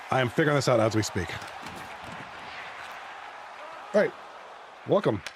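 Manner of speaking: talking while chewing gum. Real, not acted. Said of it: "I'm chewing gum like a cow".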